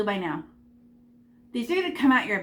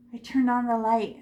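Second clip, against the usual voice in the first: delighted gasp. Real, not acted.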